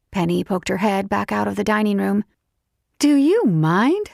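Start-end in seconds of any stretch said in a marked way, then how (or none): 3.0-4.1 annoyed. Acted. Penny snaps from dining room.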